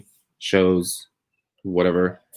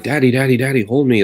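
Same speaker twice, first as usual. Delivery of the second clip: a hint of a small child pleading, higher; lightly voiced little daughter; 6 semitones higher, 4 dB louder than usual. Daughter woken by a nightmare, lightly voiced plea.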